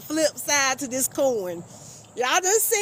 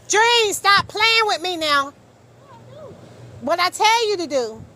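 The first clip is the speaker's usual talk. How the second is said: stern scolding; 5 semitones higher, 4 dB louder than usual. Real, not acted.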